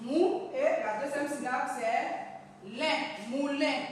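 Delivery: "mou" alone, "lin" alone, then "moulin"; syllable by syllable. Shown as a demonstration. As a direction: read each syllable apart before joining "moulin". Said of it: "le lire par syllabe". (lire par syllabe : « mou », « lin », « moulin »)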